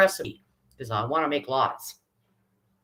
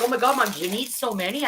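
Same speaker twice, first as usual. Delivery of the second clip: daughter's protest; 5 semitones higher than usual. Retold or imitated. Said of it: "She's like".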